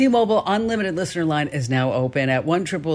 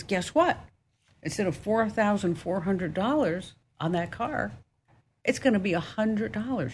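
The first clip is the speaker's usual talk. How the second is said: higher, building the surprise; excited news; 5 semitones higher, 4 dB quieter than usual. Retold or imitated. Mechanic calling back with the good news, excited.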